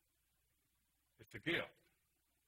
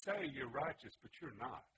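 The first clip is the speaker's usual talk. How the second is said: Satan raging against God, a raised accusing shout; Satan screaming; 4 semitones higher than usual. Retold or imitated. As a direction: hurl the accusation up at heaven. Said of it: "and he would scream".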